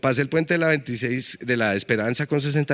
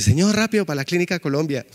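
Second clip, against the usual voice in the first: higher, urgent plea from a worried mother; urgent passenger; 4 semitones higher than usual. Retold or imitated. Mother begging the taxi driver to hurry, urgent higher plea. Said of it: "me dice".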